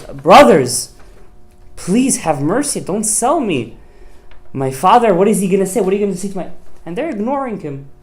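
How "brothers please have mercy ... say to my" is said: put-on high pleading boy's voice. Yosef begging his brothers, a high pleading voice. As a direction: beg the brothers for mercy. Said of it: "He says".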